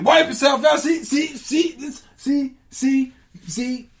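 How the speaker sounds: high, loud, sing-song outrage; outraged gods. Acted. Gods shrieking at the news of the bomb, high-pitched outrage. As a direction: squeal it out in disbelief.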